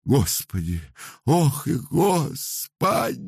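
high, slow drawn-out wail on Ох. A narrator's reading. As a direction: moan to God in grief. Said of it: "выла старуха".

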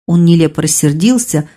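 plain reading voice

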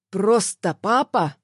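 slow, hard bark in an altered voice; angry bark. A narrator's reading. Angry man cuts in on mother and son, barking. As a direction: bark it out, slowly and roughly. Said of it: "рявкнул он".

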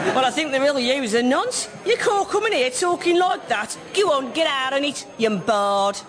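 gruff Black Country pub regular; telling him off in Black Country; Black Country accent. Acted. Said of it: "here we go".

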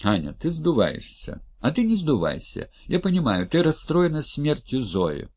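calmer tone. Acted. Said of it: "заговорил уже спокойнее".

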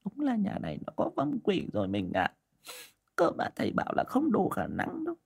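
a softly despairing wife; sad reply. A narrator's reading. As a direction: tell him the bad news in grief. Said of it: "buồn rầu đáp".

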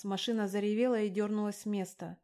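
usual speaking voice

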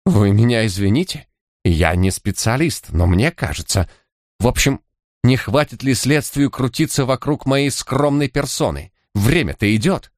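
high, thin and irritated; a thin voice tight with anger; angry thin voice. A narrator's reading. Suspect to detectives, high thin angry protest. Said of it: "злым, тонким голосом".

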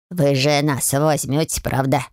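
low, slow and bashful; shy hopeful spirits. A narrator's reading. House spirits asking Olivia to keep them, shy and hopeful. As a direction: ask with hope. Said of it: "смущённо, с надеждой".

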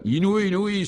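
high-pitched excited exclamation; highly excited. Acted. Guy exclaims at the howling horse, highly excited. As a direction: cry out in astonishment, pitched high. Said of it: "fortement excité".

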